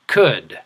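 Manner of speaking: could modelled for repeating; model word could. Shown as a demonstration. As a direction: say could with a light d at the end.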